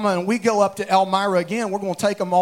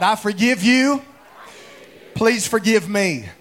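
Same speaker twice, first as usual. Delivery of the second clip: out loud. Shown as a demonstration. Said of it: "everybody say it out loud".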